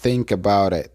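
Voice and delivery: "think about it" said as one linked word; words joined. Shown as a demonstration. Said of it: "se unen y se pronuncia". ("think about it" pronunciado como una palabra)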